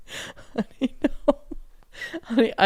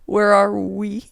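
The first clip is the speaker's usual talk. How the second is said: slow, broken by laughter; real giggling while asking; laughing; 2 semitones lower, slower than usual. Real, not acted. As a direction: stumble through it laughing. Laughing, lost the thread.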